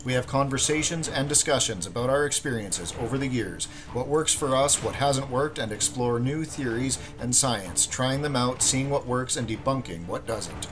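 smooth announcer read over music; podcast intro read. Acted. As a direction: read it like a show opener.

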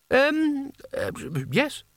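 high-pitched, hesitant agreement; stall, then agree uncertainly in a high voice; nervous stammer. A narrator's reading. Nervous wizard put on the spot.

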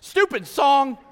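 mock exasperated. Mock frustration at song.

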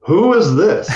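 high, startled question; surprised. Retold or imitated. Veteran startled by a voice on the phone, high surprise. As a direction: caught off guard by a stranger.

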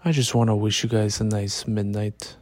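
relaxed, lying in bed; late-night talk lying down in bed. Real, not acted. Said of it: "I'm recording this in my bed".

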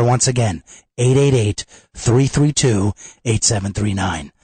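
upbeat radio ad read. Acted. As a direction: sell it like a radio spot. Host reads sponsor ad.

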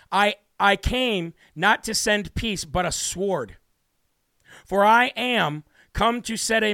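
slow, measured Bible reading; scripture reading. A narrator's reading. Preacher reading King James verse to his congregation, slow and solemn. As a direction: read the verse deliberately, pausing between phrases.

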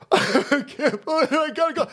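high blubbering imitation; mock crybaby. Host mimicking people who resent work, mock crying. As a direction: whine it as if sobbing, hammed-up. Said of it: "These motherfuckers sit there and go".

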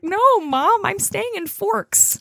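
put-on high, slow teenage protest; teen Bella. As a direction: squeak it like an earnest teenager. Voicing Bella, squeaky teen.

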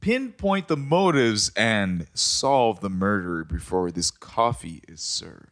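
slowing narrator voice, drawn out at the end; dramatic reading. Acted. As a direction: build suspense as you read. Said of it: "turned on just by hearing you read that".

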